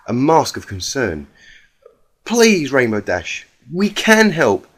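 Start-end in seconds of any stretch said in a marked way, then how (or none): 2.2-4.7 higher, timid voice of a gentle pony; gentle Fluttershy. Acted.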